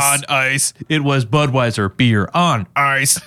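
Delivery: stilted mock robot delivery; imitating a robotic, over-enunciated speaker. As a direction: separate each word like a machine. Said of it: "he, like, roboted it".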